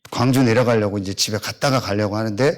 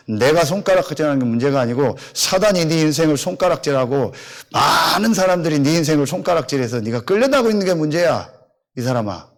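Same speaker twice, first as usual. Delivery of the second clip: retold shouting down; 4 semitones higher than usual. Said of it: "말로 소리 지르고".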